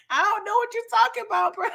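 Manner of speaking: high, nervous playing dumb; imitating a guy dodging the question; mock evasive denial. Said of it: "repeat of quote".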